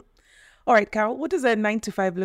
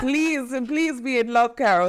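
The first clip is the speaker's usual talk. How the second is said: teasing plea through a laugh; 3 semitones higher, slower than usual. Real, not acted. Host begs guest to be in love, laughing. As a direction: plead playfully while laughing.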